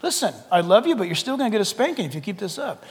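lightly voiced parent's reprimand, softening as it goes; scold, then ease into quiet firmness; scolding parental God. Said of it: "And then God speaks".

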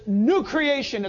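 drawn-out, weighty pronouncement; emphatic declaration. Acted. Preacher voicing Scripture's verdict as a gavel falls, emphatic declaration. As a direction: pronounce it like a verdict, slow and firm. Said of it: "a gavel that comes down on the wood".

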